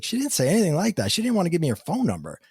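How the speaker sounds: high, fast, disbelieving retort; incredulous protest. Retold or imitated. Telling his wife the medium never said that, incredulous. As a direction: insist she said no such thing.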